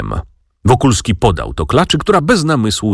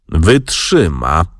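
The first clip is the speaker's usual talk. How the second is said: slow, lower, unbothered; phlegmatic; 4 semitones lower, much slower than usual. Acted. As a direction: drop it lazily, no care at all. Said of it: "odparł flegmatycznie".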